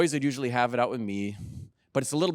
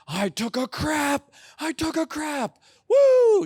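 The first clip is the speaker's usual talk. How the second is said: much higher, louder, slow triumphant mock yelling; kids screaming; 10 dB louder, slower than usual. Kids racing through a buffet, imitated screaming. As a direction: playfully imitate little kids shrieking with glee. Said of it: "run through the restaurant screaming".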